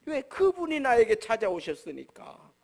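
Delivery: usual speaking voice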